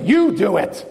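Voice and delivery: retold flustered handing-over, emphatic YOU; mock-exasperated giving up on the task. New driver handing parents the car keys, flustered. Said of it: "and I get flustered".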